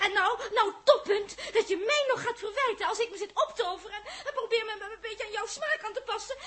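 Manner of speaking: anger breaking into tears; a hint of crying at the end; tearful anger. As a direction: fade from rant to hurt sobbing. Tirade turning to tears.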